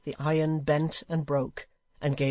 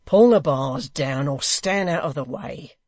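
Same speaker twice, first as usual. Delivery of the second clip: blunt order; 7 dB louder than usual. Acted. Hugh answering the hangman, loud order. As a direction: shout him down. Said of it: "was Hugh's reply".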